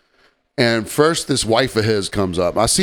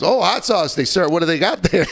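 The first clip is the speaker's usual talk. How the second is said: higher-pitched mock tourist; clueless tourist husband; 6 semitones higher than usual. Husband hearing of a hot sauce shop, mock naive voice. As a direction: imitate a naively curious out-of-towner, pitched up.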